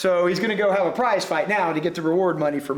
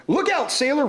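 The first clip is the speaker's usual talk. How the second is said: crowd roar; 7 semitones higher than usual. A narrator's reading. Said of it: "roared the crowd".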